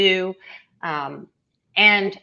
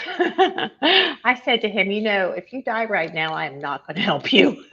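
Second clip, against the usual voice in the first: laughing recollection; 3 semitones higher than usual. Real, not acted. Laughing as she recalls her joke.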